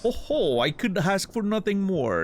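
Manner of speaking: theatrical flea showman voice; grandiose flea circus showman. Acted. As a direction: bless them like a grand ringmaster. Voices flea master dialogue.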